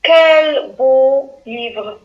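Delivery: slow, drawn-out admiration; admiring exclamation. Shown as a demonstration. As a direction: marvel at the book. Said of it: "Phrase numéro trois".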